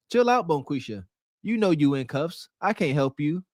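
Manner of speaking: flat robotic assistant voice. Retold or imitated. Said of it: "in that monotone robotic voice".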